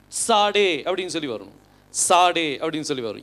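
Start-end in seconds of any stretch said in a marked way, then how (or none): 0.1-0.8 சாடே begun with the "ts" of "its"; ts pronunciation. Shown as a demonstration. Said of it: "இட்ஸ் அப்படிங்கிற sound வரணும்". 1.9-2.6 சாடே opening on a "ts" sound; ts pronunciation. Shown as a demonstration. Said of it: "இட்ஸ் sound வரும்".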